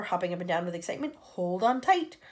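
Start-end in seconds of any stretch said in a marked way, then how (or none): 1.2-2.2 slow, louder warning; urgent slow call; shouted warning. A narrator's reading. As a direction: call out to brace everyone. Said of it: "shouted the old green grasshopper".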